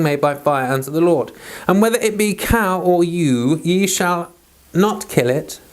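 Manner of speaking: measured, solemn Bible reading; formal King James reading aloud; scripture reading. Acted. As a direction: read the old text with reverent weight. Reads scripture aloud from Leviticus.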